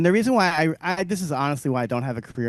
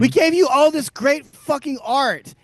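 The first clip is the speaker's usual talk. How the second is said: high, slow, loud boast; drawn-out proud yell; proud shout; 10 semitones higher, 5 dB louder than usual. Real, not acted. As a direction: belt it with Southern pride. Proud rant about the South.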